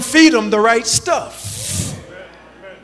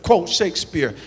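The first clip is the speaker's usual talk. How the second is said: angry complaint; 3 semitones higher than usual. Retold or imitated. Bird buyer complaining to the shopkeeper, mildly angry. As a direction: retell the buyer's irritation, half-hearted. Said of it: "he was angry".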